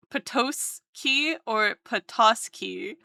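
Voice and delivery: Potowski or Petoski said slowly; slow comparison; slow contrast. Shown as a demonstration. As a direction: weigh the two words slowly. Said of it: "Which one is right?".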